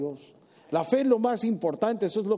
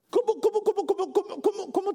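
laughing mock outrage; 14 semitones higher than usual.

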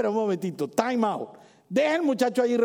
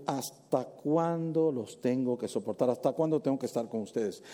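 afflicted sigh; 5 semitones lower, 5 dB quieter than usual. Acted. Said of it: "su primera respuesta... aflicción".

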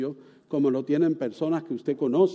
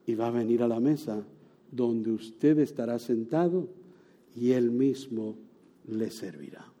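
hushed awe; 7 semitones lower, 6 dB quieter than usual. Acted. Awed sermon climax.

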